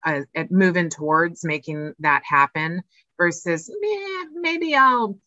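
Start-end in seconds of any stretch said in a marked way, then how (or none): 3.8-5.2 high, drawn-out noncommittal "meh"; lazily mock a procrastinator; dismissive putting-off. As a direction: shrug it off in a slow, raised voice. Voicing someone putting off quitting.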